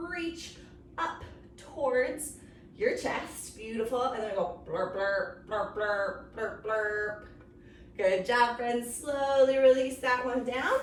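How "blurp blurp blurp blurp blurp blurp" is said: horn blurp. Shown as a demonstration. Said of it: "like you're playing horn".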